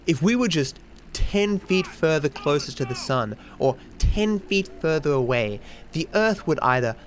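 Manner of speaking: slow, starry-eyed Facebook lady, lightly voiced; mock pious commenter. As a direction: read it out like a naive, devout believer. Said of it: "And this woman commented, like".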